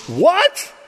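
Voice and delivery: very high, loud, fed-up scolding; shrill-pitched mock outrage from heaven; exasperated parent-God. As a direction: squeal it like a parent who's had it up to here. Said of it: "here's God in heaven going".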